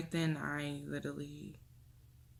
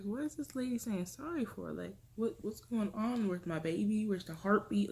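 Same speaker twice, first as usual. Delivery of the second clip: higher, questioning voice; puzzled, impatient questions pitched up; retold bewilderment; 4 semitones higher than usual. Recalling confusion at the technician's apology, bewildered.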